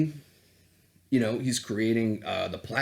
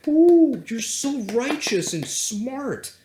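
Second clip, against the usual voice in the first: higher, mocking sing-song with a loud Ooh; sarcastic mockery; 8 semitones higher, 5 dB louder than usual. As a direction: sneer at the self-righteous critic.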